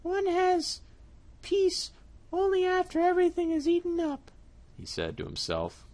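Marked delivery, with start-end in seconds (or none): 0.0-4.3 satisfied cat. Acted. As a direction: savour it like a full cat. Cat to himself.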